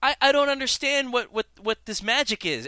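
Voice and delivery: high-pitched mock bewilderment; baffled surprise. Player reacting to the officer's sudden shouting, baffled high voice. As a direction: react as if thrown by the outburst.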